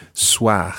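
"Soir" ending on a throaty French R; French "Soir" with uvular R; guttural R. Shown as a demonstration. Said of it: "a guttural R at the end".

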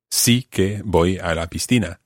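"Sí" hit first and hard; stress on sí. Shown as a demonstration. Teacher repeats the example, stressing sí. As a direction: punch "Sí" to insist. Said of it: "used to emphasize the verb itself".

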